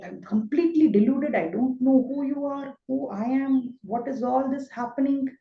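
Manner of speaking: a frightened, confused Arjuna begging God to explain; Arjuna bewildered. Retold or imitated. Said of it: "It is like".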